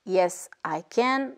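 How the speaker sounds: British English, can't said as "cahn't"; teacher models the British "can't" with a long open a; British accent. Shown as a demonstration. Teacher showing French learners the British way, British accent. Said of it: "En Angleterre, on dira plutôt".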